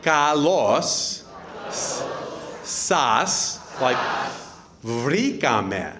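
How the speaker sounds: "Kalos sas vrikame" broken up word by word with long pauses; really slow. Shown as a demonstration. Best man slowing the Greek reply down for the guests, really slow. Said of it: "I'm gonna try to say it really slow now".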